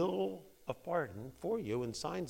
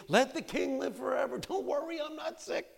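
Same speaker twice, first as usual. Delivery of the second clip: much higher, pleading with the king; pleading servant; 12 semitones higher, 3 dB louder than usual. Acted. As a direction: beg him not to worry. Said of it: "and I said unto the king".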